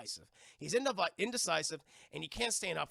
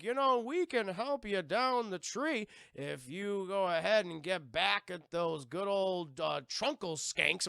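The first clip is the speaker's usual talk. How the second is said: lightly voiced old tree couple; 3 dB louder, slower than usual. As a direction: play kindly old portrait people, lightly. Tree couple offers help.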